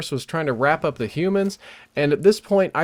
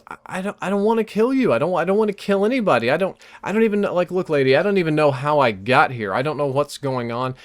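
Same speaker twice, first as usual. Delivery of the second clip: pleading; 2 semitones higher than usual. Retold or imitated. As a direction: rush it out, begging her to believe. Pleading with terrified vampire.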